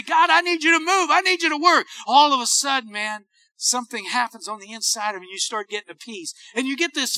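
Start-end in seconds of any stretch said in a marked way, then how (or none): 0.0-1.9 higher-pitched urgent plea; an acted, pleading prayer; crying out to God. Believer pleads with God to move, crying out. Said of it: "start crying out to God".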